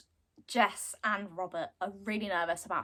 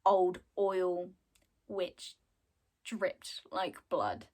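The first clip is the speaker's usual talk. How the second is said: slow, hushed, near-whisper; eerie reveal; 3 semitones lower, slower than usual. Real, not acted. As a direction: let it fade to a creepy whisper. Creepy reveal in the retold story.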